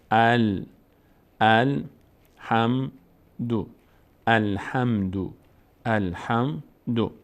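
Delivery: الحمدو built slowly as al, ham, du; slow teaching model of الحمدو with opening "a"; syllable-by-syllable reading. Shown as a demonstration. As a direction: sound out الحمدو one piece at a time. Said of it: "لام میچسبه به الف ما قبل".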